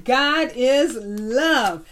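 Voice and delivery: "God is love" very slow, each word separate; slow confirming repeat. Shown as a demonstration. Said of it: "That's right".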